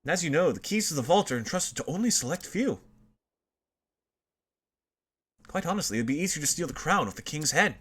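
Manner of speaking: lightly voiced pompous scholar; detective scholar voice. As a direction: read it as a grand sleuth.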